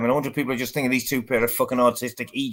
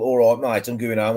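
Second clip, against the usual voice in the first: put-on Brummie accent. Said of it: "the way Brummies talk".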